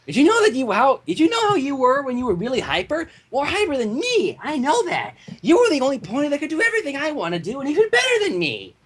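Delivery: a hint of a high, perky pony; cheerful friend teasing a little; lightly voiced Pinkie Pie.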